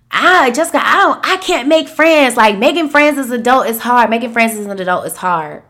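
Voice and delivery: high, complaining friend voice, fast; whiny complaint. Retold or imitated. Friend complaining to Jessica that making friends is hard, whiny and high. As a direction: whine it like a frustrated friend. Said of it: "what I hear a lot is like".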